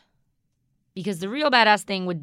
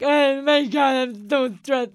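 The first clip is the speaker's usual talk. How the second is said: mock stressed wail; 6 semitones higher, 8 dB louder, slower than usual. Acting out breaking down.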